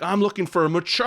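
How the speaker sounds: lazy man British voice, haughty; mock posh British. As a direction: fake snooty British accent. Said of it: "What is this accent".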